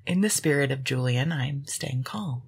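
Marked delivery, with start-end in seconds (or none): 1.3-2.4 calm impression. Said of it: "you're doing a very good impression of him".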